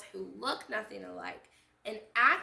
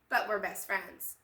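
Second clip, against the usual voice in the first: put-on high, loud girlish chorus; two girls in unison; 11 semitones higher, 7 dB louder than usual. Cookie and Milk answering together, gleeful. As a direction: shout it together like best friends.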